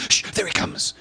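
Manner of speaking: acted hush to the crowd. Onlooker announcing Moses to the crowd, hushed. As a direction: whisper it as an awed onlooker.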